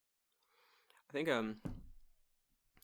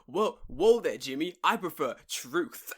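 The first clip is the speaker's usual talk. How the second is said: camp counselor; 7 dB louder, slower than usual. Acted. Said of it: "you're like a fucking camp meeting".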